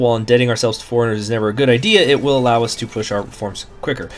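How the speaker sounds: brisk, fast reading of a game event; event text read-out. Acted. Streamer reading the event popup aloud, brisk read. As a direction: rattle off the event text quickly.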